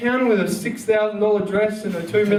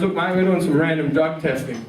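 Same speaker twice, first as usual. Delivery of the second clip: low cop voice; 6 semitones lower than usual. Retold or imitated.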